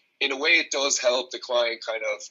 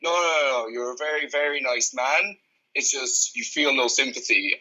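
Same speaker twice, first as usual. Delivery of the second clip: put-on awful Brazilian accent; 3 semitones higher than usual. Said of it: "so I'm gonna do an awful accent".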